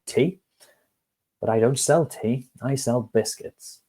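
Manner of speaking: a baker who can't see why tea matters. Acted. Baker puzzled by the pigeon's news.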